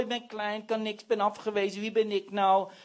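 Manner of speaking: soft, half-hearted mewling; lightly imitated whiner; mock whining. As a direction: murmur excuses in mild self-pity. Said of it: "als jij maar loopt te miauwen".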